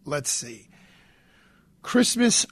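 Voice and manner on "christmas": dramatic emphasis. Acted. Reads wife's text, dramatic opener.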